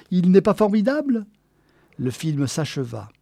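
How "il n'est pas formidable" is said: high, loud swooning admiration; delighted. A narrator's reading. Geneviève admires Clark Gable on screen, delighted. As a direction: gush over a film idol. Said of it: "Elle en gloussait de plaisir".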